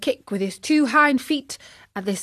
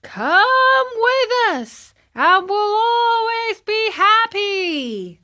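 very high, slow, drawn-out crowd shout; a hundred boys chanting at once; higher, slower mass shout; shouting together; 12 semitones higher, 4 dB louder, slower than usual. A narrator's reading. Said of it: "shouted the one hundred".

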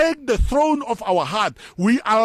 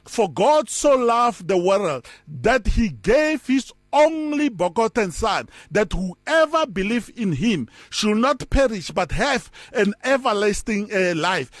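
scripture reading. Shown as a demonstration. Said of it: "it says".

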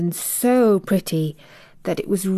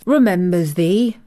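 a touch of indignation; mildly offended old gardener; indignant; 3 dB louder than usual. Acted. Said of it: "said Weatherstaff indignantly".

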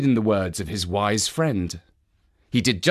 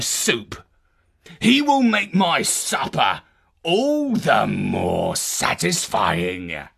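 menacing giant. Acted. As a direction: order it coldly, with relish. Giant gives cruel orders.

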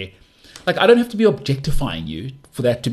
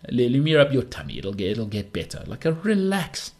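mock soothing; 3 semitones higher than usual. Mock soothing outraged people.

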